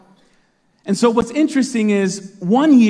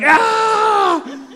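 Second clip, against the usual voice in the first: much higher stuck-in-a-dream yell; nightmare scream. Retold or imitated. Dreamer stuck in a nightmare screams, mock terror. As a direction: cry out as if trapped in sand. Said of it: "like one of those nightmares".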